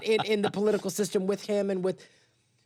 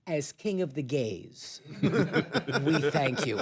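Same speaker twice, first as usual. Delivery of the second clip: laughing; 4 semitones lower, much slower than usual. Retold or imitated. Toasting the president, laughing.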